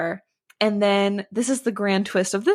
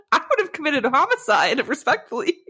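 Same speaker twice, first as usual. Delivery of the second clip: laughing; 6 semitones higher than usual. Real, not acted. Joking outrage, laughing.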